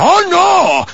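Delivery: high mock outcry; loud defensive protest. Preacher mimics church members who defend, loud mock protest. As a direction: burst out in exaggerated, high-pitched objection. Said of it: "The ones that really defend".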